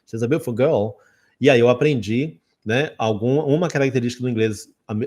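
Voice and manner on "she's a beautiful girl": British "beautiful" as "be'ful"; British friend's swallowed "beautiful girl"; imitated British accent. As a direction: drop the middle of "beautiful", British style. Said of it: "essa comida no T e no I".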